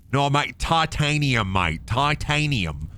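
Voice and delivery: mock British accent, drawn-out titanium. Gamer mocks British word for metal, mock British accent. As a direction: correct a mate in put-on British. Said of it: "I make fun of the British".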